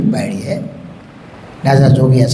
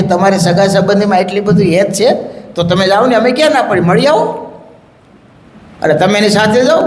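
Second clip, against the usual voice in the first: higher, breezy master's voice; Maharaj, offhand; 5 semitones higher than usual. Acted. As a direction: wave it off as if nothing matters. Maharaj dismissing sisters lightly.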